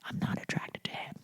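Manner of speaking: barely audible retold whisper; imitating a tiny hushed admission; whispered confession. Retold reluctant confession to producers.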